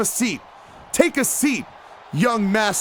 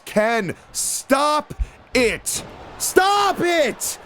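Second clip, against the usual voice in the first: yelling at wrestler; 3 semitones higher, much slower than usual. Real, not acted. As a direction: yell at him to stop. Yelling at Ken to stop.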